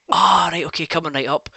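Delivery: posh barman. Retold or imitated. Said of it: "He's like".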